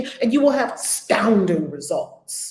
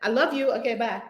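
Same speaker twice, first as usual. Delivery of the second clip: bubbly phone chat; 2 semitones higher than usual. Retold or imitated. Voicing a quick phone message.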